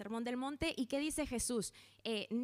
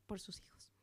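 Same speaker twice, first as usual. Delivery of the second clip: voz quebrada; 3 semitones lower, 9 dB quieter than usual. Real, not acted. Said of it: "siempre lloro".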